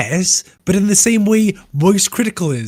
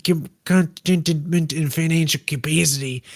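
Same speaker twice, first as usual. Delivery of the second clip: put-on Australian accent. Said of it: "How do Australians talk like this".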